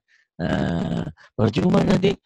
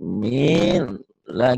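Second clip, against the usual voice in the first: slow, hesitant mumbled Bismillah; timid reading; much slower than usual. Shown as a demonstration. Teacher shows pupil the wrong timid recitation. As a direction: show the scared way a shy pupil reads. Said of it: "Nggak boleh begitu baca Quran".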